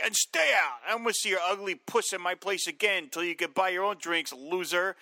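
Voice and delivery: angry bartender. Retold or imitated. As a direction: throw the bum out, hollering. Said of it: "And he's like".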